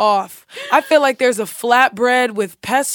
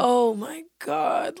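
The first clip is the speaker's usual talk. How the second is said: slow, drawn-out dread; retold dismay; 5 dB quieter, much slower than usual. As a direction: stretch it out in mock dismay. Her dismayed reaction, retold.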